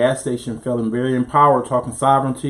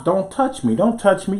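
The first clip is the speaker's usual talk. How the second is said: imitating a white protester yelling at cops, higher; higher mock "don't touch me" at the cops; 6 semitones higher than usual. Host mocking a protester telling cops off, in a higher mock voice. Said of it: "telling the cops".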